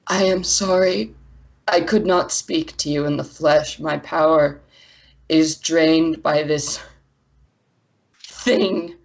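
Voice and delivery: measured, grave apology; halting, deliberate otherworldly voice; proud elemental, sorrowful. Acted. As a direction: speak as a drained but proud spirit. Game master voices elemental figure.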